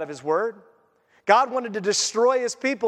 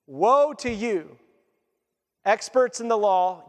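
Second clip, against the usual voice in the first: drawn-out, weighty woe; slow solemn woe; slower than usual. Acted. Preacher pronouncing woe on the lawyers, slow and grave. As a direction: lay each word down slowly like a verdict. Preacher reads Jesus' rebuke.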